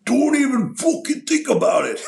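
snarled high furious threat; menacing threat. Retold or imitated. Wrestler Dynamite Kid threatening a young fan in a bar, shouted. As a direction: bark the threat to scare off a kid. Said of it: "Dynamite looks at him and goes".

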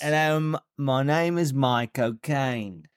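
Michael Caine impression. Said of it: "You say".

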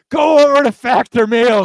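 booming, slow villain read; loud, drawn-out villain ad voice; story time villain. Real, not acted. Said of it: "you sound like a villain".

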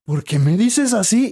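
high, slow, offended woman; hurt ex-girlfriend. Retold or imitated. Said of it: "Y ella". (la ex, dolida y lenta: ¿por qué me dices así?)

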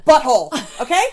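a real, loud furious yell; furious shout. Real, not acted. Furious rant climax.

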